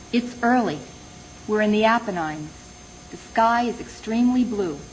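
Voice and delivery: measured poem recital with pauses between phrases; poetry reading. Acted. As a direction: read it as a poem, letting each line fall. Reads own poem aloud.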